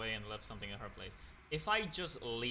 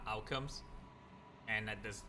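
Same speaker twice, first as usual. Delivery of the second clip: mouth full; 5 dB quieter, faster than usual. Real, not acted. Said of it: "Sorry, I'm still eating".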